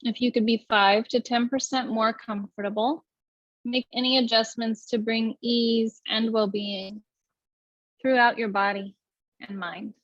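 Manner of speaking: even, unhurried meditation guidance; guided meditation. Acted. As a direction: lead the breath calmly, with long pauses.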